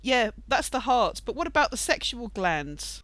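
put-on slow breathy baby-doll voice; a hint of a breathy starlet; Marilyn Monroe baby voice. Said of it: "in her little Marilyn Monroe baby voice".

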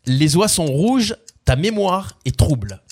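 measured spoken lyrics, each line set apart; lyric recitation. Acted. Quiz host repeating lyrics on request, measured recitation. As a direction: recite the words like verse, without singing.

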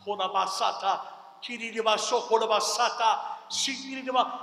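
rapid, fluent tongues prayer; praying in tongues. Shown as a demonstration. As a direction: pray in tongues, flowing. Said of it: "we're like".

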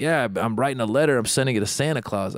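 low, subdued retold kid exchange; deep kid voice. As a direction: quote the kids in a slightly deep voice. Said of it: "The kid had a deep voice".

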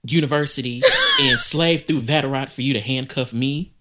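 imitating an arrestee yelling at the cop; hammed-up diva outrage; mock indignant shout. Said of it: "that's exactly how she be talking".

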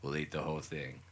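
low, softening politician impression; low-pitched mock phone caller; Donald Trump. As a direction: lightly impersonate a politician insisting on his meaning. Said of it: "And he's like".

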